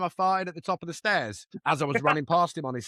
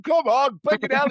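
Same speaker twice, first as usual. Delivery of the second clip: mock frantic shout; 7 semitones higher, 6 dB louder than usual. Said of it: "stuck in stair lift".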